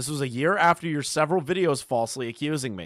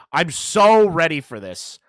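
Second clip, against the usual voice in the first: gloating; 3 semitones higher, 8 dB louder than usual. Real, not acted. Gloating build.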